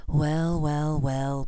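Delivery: low, slow gloating menace; a hint of cold aristocrat; lightly voiced sneering villain. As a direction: savour the triumph quietly. Voices Lucius Malfoy.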